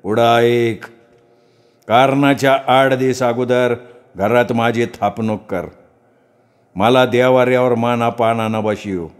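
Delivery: slow, drawn-out trance speech; possessed priest. Acted. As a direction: speak slowly as the goddess in him. Possessed priest gives orders. (घुमत बोलणारा भगत)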